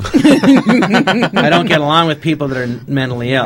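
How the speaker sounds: laughing through the words, slowed. Real, not acted. Guest laughing at his own joke to the host, slow and laughing. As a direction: chuckle out the punchline as you say it.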